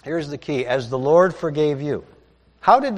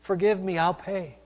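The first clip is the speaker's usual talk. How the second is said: pleading servant, pitched higher and rushed; begging; 6 semitones higher, 5 dB louder than usual. Acted. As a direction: beg for mercy on your knees. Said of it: "begs him".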